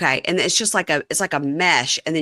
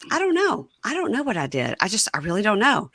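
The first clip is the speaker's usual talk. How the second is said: imitated helpless protest, pitched up at the start; protesting ignorance; 5 semitones higher than usual. Prisoner tells girlfriend he has no idea, mock-helpless protest. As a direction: plead that you honestly have no idea.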